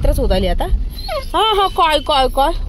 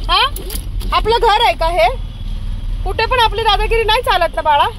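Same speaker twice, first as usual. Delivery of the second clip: pet talk; 6 semitones higher than usual. Real, not acted. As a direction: tease the dog fondly, much higher. Talking to the dog playfully.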